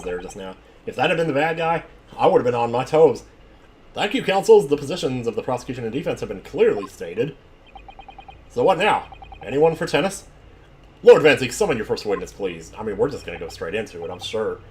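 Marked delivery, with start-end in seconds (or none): 3.9-12.7 judge voice. Acted.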